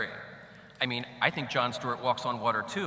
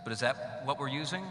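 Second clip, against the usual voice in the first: reverb. Real, not acted. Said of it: "Sorry about the reverb".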